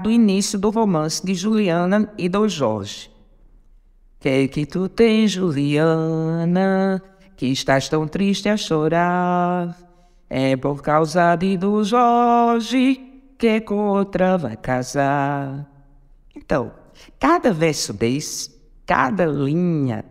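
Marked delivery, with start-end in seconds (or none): 4.2-15.7 slow ballad recitation with drawn-out line ends; recitação de poema. Shown as a demonstration. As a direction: recite the verse slowly, stretching the final vowels. (recitação lenta de romance, alongando os finais)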